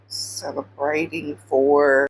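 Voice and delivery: slow, low, drawn-out question; imitating a baffled listener; puzzled Joshua. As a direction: stretch it out in mock bafflement. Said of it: "I can imagine the face on Joshua's like".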